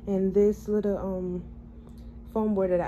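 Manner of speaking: talking with tight new braces; speech a bit off from braces; sore after braces tightening. Real, not acted. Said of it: "excuse my speech. I just got my braces tightened".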